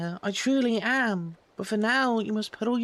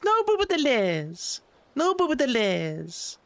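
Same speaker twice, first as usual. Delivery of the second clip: raised pitch, slow and deliberate on "No boop at the liz"; slowly and higher, each word set apart; slower than usual. Pretend.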